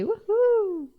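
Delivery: playful little cheer; mock cheer. Real, not acted. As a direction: celebrate like a fan. Cheering stock gains.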